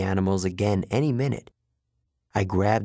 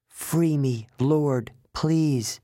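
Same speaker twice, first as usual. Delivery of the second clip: higher, lightly voiced animal plea; pleading zebra; 5 semitones higher, much slower than usual. Frightened zebra begging its lord for freedom, pleading. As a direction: beg your lord for rescue. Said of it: "wild-eyed with fear".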